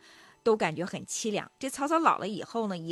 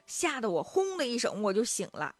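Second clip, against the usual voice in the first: higher-pitched flustered complaint, speeding up at the end; startled, helpless father; 5 semitones higher than usual. Acted. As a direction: act out a rattled old father at a loss.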